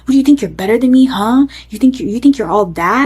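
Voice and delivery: retold drunken taunt, pushed a bit; retold angry yelling. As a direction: imitate him yelling accusing questions, half strength. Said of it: "he's yelling at me".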